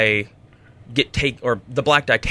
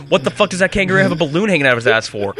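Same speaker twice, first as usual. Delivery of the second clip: higher, rapid-fire acted disbelief; quick, pitched-up mock bewilderment; baffled onlooker; 6 semitones higher, faster than usual. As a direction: blurt it out as a baffled bystander. Acts out baffled onlooker's reaction.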